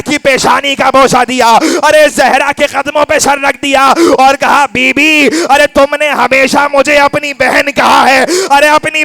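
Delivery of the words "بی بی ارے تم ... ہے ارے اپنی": pleading lament. Acted. Fizza pleading to Zahra at farewell.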